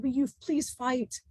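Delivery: slow, soft imploring plea; pleading. Retold or imitated. Disciple begging his teacher to fight, slow soft pleading. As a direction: beg him gently to fight back. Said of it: "And I was begging".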